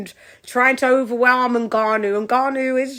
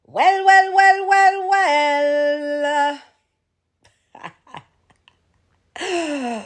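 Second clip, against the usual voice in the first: Joker voice; 4 semitones higher, much slower than usual. Acted. Joker persona drawn out.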